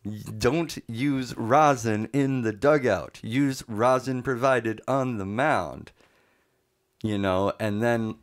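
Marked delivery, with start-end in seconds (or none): 0.0-5.9 slow, spaced-out mock instruction; retold umpire warning. Umpire warns the pitcher about rosin, slow and deliberate. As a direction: spell it out slowly, as an umpire would.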